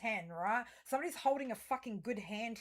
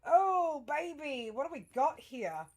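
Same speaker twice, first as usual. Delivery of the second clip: higher and louder, thrilled; excited; 5 semitones higher, 7 dB louder, slower than usual. Real, not acted. Reader greeting a great card, excited. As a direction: pounce on the new card with glee.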